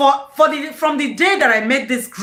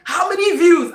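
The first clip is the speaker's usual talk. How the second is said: retold excited shout; 5 semitones higher than usual. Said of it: "I was shouting".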